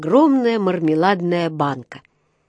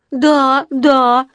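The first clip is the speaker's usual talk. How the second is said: high, loud, eager blurt; выпалил; 6 semitones higher, 6 dB louder than usual. A narrator's reading. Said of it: "выпалил Паддингтон". (выпалил высоко и громко)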